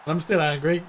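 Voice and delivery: a grin in the voice, not angry at all; mock anger through a smile; said smiling. Real, not acted. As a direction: claim anger while smiling. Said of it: "Yeah, I'm smiling".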